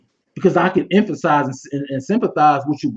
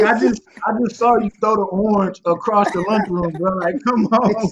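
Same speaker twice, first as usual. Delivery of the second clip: exasperated teacher; 5 semitones higher than usual. Retold or imitated. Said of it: "It's like".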